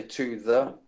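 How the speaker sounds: "to the" said in full, both words sounded; "to the" with no glottal stop; full unclipped words. Shown as a demonstration. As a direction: sound out "to the" without cutting it off. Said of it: "we don't say".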